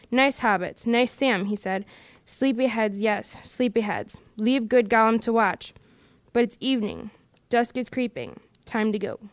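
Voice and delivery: a lightly voiced Gollum, fawning and sly; wheedling Gollum. Gollum speaks to Sam.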